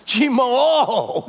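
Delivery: high, long mock moan; retold moan. Preacher imitating the woman facing the loss, moaning. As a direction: groan it out in exaggerated dismay.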